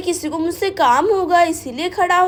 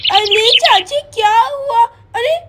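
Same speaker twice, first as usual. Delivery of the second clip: loud worried call; 2 semitones higher, 5 dB louder than usual. Acted. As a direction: call to the aunt across the house. Child calls out to aunt. (घबराकर ज़ोर से पुकारना)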